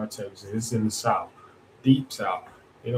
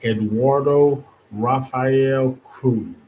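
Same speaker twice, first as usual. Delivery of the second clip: slow, deliberate, mocking each name; mock formal full name; 2 semitones higher, much slower than usual. Host mocks Cruz by reciting his full name slowly. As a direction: roll out his full name to needle him.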